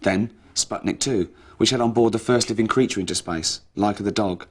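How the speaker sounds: a lightly solemn, slightly loud report; mock documentary read. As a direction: read it like a serious TV piece.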